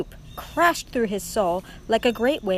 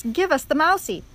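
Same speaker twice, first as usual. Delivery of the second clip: raised, high crowd voice; rat's shouted demand; 6 semitones higher, 4 dB louder than usual. A narrator's reading. Hungry rat calling from the crowd, shouting. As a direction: demand the prey greedily. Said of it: "shouted one of the rats".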